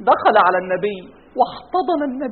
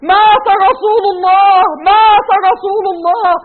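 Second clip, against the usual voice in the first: slow, louder grieving cry; 5 semitones higher, 5 dB louder, slower than usual. Acted. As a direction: wail the news to the crowd. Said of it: "أصرخ". (صرخة حزينة بطيئة عالية)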